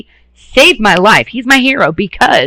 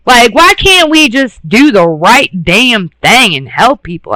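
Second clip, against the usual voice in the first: raised, slow, worked-up plea; passionate outburst; 4 semitones higher, 4 dB louder, slower than usual. Real, not acted. Ranting to viewers about the broken mental health system, raised and slow. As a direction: push the words out, frustrated and pleading. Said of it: "I'm getting passionate here".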